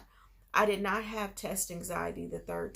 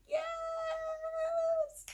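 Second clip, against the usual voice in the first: high squealing yes, breaking into a joyful cry; excited cheering; much slower than usual. Retold or imitated. Hearing she passed the exam, she squeals in high, joyful shouts. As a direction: relive the moment you hear you passed. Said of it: "was so excited".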